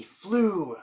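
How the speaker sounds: high, loud swoop into a whisper; excited whoosh. Acted. Storyteller acting Darby flying over the fire. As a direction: swoop the word like flight.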